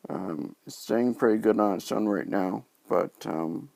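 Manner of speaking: talking around new dentures; speech thick from fresh dentures; post-op weakness. Real, not acted. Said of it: "it is a little hard to talk right now".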